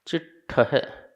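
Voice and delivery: each word said alone, with long pauses; word-by-word Prakrit verse recitation; slow word-by-word recitation. Shown as a demonstration. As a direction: recite slowly, one word at a time. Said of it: "उच्चारण करेंगे".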